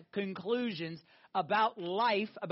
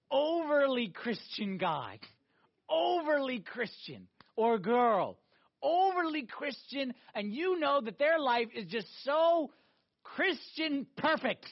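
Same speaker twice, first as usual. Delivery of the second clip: mocking drawl; slower than usual. Mocking the overly Christian.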